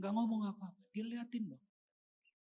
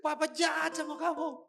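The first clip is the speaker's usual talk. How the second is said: raised voice building to a loud anguished question; imitated tearful confession; 6 semitones higher, 6 dB louder than usual. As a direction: confess as a weeping father, breaking out at the end. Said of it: "Dia nangis". (menirukan ayah menangis, makin keras)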